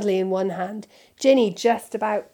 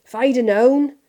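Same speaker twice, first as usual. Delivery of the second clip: loud, higher growled grumble; indignant gruff outburst; 4 semitones higher, 8 dB louder than usual. A narrator's reading. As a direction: keep growling, voice lifting. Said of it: "growled Hagrid".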